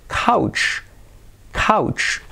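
couch said high and breathy with an ow. Shown as a demonstration. Teacher models couch for learners, high-pitched. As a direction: raise couch up high, stressing the ow. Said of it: "el cuarenta y uno".

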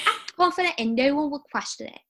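put-on a botched country-British accent; mixed accent. Second try at Sarah's Day's line in a muddled accent. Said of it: "a mix between, like, a country and, like, a British accent".

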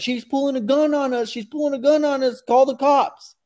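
hammed-up panicked cry for help; mock panic. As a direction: squeal it like a faked victim. Mocking the filmer's panicked claim.

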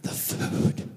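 breathy, drawn-out mock whisper; acted choked-up whisper; strained composure. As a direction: hold back tears and force out the order. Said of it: "composing himself, controlling himself".

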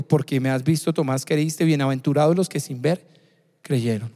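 tender rebuke to a doubter; Jesus answers Thomas, low and gentle. Acted.

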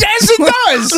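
high, slow, loud exclamation; emphatic yes. Real, not acted. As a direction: shout it back at the clip. Emphatic agreement with the clip.

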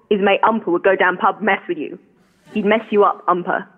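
lightly imitated Cockney dad; dad's Cockney. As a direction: clip off the aitches like a Cockney in the pub, lightly. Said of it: "something that I heard my dad say a lot".

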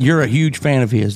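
dry mocking praise; sarcastic. Real, not acted. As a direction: say it with obvious sarcasm.

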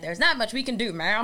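lightly voiced old-fashioned policeman; a hint of a dismissive old cop; old-timey cop voice. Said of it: "You've got a great old-timey cop voice".

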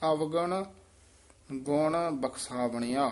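ਅਵਗਣ rising, a gap, then ਗੁਣ ਬਖਸ਼ਾਵਣਿਆ; pause after ਅਵਗਣ. Shown as a demonstration. Teacher showing the student the pause after ਅਵਗਣ. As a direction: stop briefly after ਅਵਗਣ. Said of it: "ਅਵਗਣ ਤੇ ਵਿਸਰਾਮ?".

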